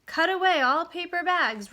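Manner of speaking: loud, high shouted command; roaring. Acted. Owner ordering Stuart to cut the bag, roaring. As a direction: roar the order across the water. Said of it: "roared the owner".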